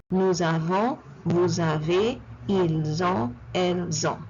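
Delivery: nous avons to elles ont with silent endings and Z links; liaison drill. Shown as a demonstration. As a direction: recite nous avons as "nou-za-von", likewise through elles ont. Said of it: "last consonants are normally not pronounced".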